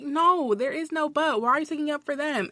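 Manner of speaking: retold indignant protest; indignant retort. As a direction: argue back, firmly refusing the excuse. Acted quarrel with HR.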